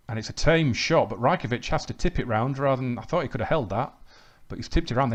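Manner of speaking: lively match commentary, rising with each chance; live play-by-play. Real, not acted. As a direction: call the action as it happens. Commentates his own match highlights.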